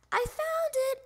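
high, loud discovery shout; excited little frog's shout; triumphant yell. A narrator's reading. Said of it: "yelled Froggy".

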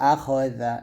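"আখজা" with a thin z, tongue tip at teeth; thin zal. Shown as a demonstration. Teacher shows pupils the tongue position, thin "জা". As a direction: say a-KHO-za with a light, thin "জা". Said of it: "জাল পাতলা করে উচ্চারণ করবেন".

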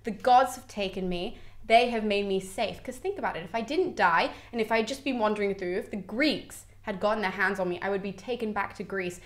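soft, gentle ghostly reassurance; very calm. Acted. Creusa's shade consoles her crying husband, very calmly. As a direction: reassure him softly and evenly. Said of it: "very calmly just looks at him".

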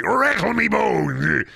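high, drawn-out skeleton cry. Acted. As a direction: wail it slowly like a cartoon skeleton. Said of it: "what a skeleton voice would sound like".

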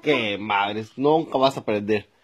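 low, resigned grumble; exasperated. Acted. Father giving up on teaching his son, exasperated. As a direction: give up on the pupil, voice dropping.

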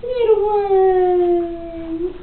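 slow, high cooing at a puppy. Real, not acted. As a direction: stretch the words sweetly for the pup.

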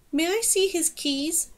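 lightly voiced marmoset, slow and curious; a hint of a small creature asking; small animal voice. The marmoset Zek speaks.

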